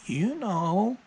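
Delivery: very high, loud parrot squawk. Acted. Parrot answering the glaring guy, high loud parrot voice. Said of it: "the parrot goes".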